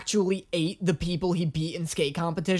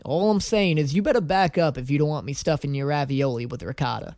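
Joe; 7 semitones lower than usual. Retold or imitated. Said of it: "Look at Joe staring at him like".

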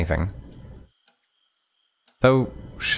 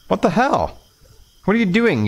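angry shout; 10 semitones higher than usual. Acted. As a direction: yell at whoever slapped you awake. Woken man shouts angrily.

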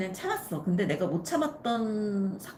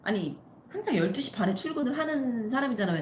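usual speaking voice

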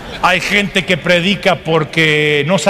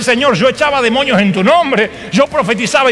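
raised-pitch acted protest; protesting claimant; 5 semitones higher than usual. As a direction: plead your record before the Lord, voice pitched up. Imita al rechazado reclamando a Dios. (reclamo agudo, actuado)

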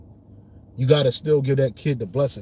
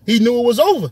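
emphatic; 8 semitones higher, 7 dB louder, faster than usual. Real, not acted. Dramatic story emphasis, repeated.

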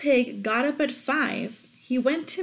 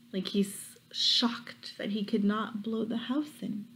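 hushed storyteller whisper; 6 dB quieter than usual. Real, not acted. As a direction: whisper it like a secret. Hushed aside to children.

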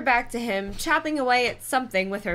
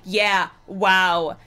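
louder dry sarcastic echo; deadpan mock enthusiasm; 6 dB louder than usual. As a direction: throw the wow back at her sarcastically. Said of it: "he repeated sarcastically".

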